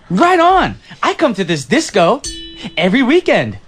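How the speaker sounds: groovy retake. Acted. Retro guy redoes his disco line for his date, lightly hammed up. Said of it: "take it back to your line".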